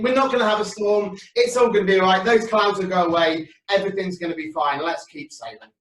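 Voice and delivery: friend in the boat, uneasy then talking himself calm; worried fisherman friend. Acted. Disciple eyeing the dark clouds, worried then reassuring himself.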